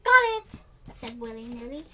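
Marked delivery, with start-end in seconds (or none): 0.0-0.6 high and loud, bursting with eagerness; excited high reply. Acted. Willy shouting back his new phrase, excited. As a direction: shout it proudly like a keen little boy.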